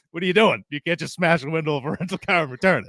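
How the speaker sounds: fast, laughing mock scolding; amused disbelief, quick; laughing quote. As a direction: scold him while cracking up. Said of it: "finally Punk said".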